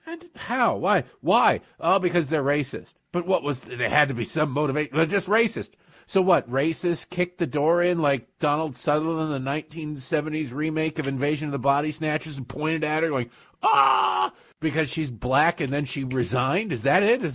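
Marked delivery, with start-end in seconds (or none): 0.1-9.3 incredulous rant. Real, not acted. Heated rant, rhetorical questions. 13.6-14.3 a high, loud pointing scream; high screech of the Invasion of the Body Snatchers pod person; Body Snatchers shriek. Retold or imitated.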